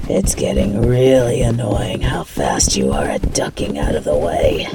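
whispered, irritated grumble to herself; annoyed whisper. Acted. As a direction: hiss it under your breath in annoyance.

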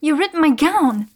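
outraged at the torn gown; indignant. Acted. Gown ripped in fight.

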